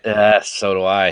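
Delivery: put-on old man voice. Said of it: "You sounded like my old man when you did that".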